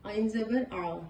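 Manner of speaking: عین زبر آ with a throaty open آ; ain with fatha. Shown as a demonstration. Teacher showing ain with fatha. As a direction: open the mouth wide on the آ. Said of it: "اب یہاں پہ دیکھیں".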